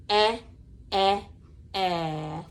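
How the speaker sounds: eh with the mouth a little open, repeated; vowel sound demo. Shown as a demonstration. Teacher coaching a child's mouth shape for E, carefully. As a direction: show a wide-open short e. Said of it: "open your mouth a little bit".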